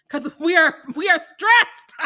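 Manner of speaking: explaining being poor, laughing loudly. Real, not acted. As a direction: laugh while admitting stress. Laughing complaint.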